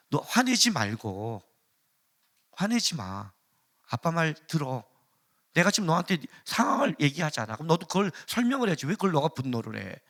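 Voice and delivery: calm father. Retold or imitated. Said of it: "우리 아이들을 혼낼 때".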